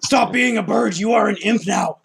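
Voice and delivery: high, loud strained monster rasp; rasping strained mutant. Acted. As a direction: growl it out like a mutant brute. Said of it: "You sound like a super mutant".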